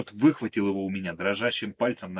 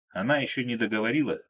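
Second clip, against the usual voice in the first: usual speaking voice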